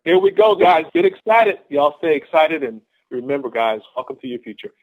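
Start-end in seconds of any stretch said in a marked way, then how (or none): 0.0-2.6 loud, higher-pitched hype; rally the crowd with rising energy; pumped-up rallying. Real, not acted. Speaker readies the team for quotes, pumped-up rallying.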